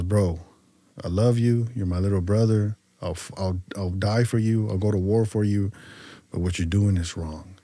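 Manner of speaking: low, soft big-brother talk; level with him quietly, like an older brother; retold heartfelt counsel, kept low; sincere warning.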